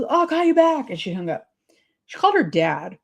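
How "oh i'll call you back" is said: imitating cousin. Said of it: "She goes".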